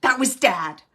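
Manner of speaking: amazed realisation. Pretend. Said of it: "You're gonna go".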